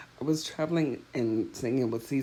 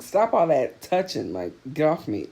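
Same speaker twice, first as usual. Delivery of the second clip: retold irritation; 3 semitones higher, 5 dB louder than usual. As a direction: retell an annoyed push-away with some force. Annoyed at being touched.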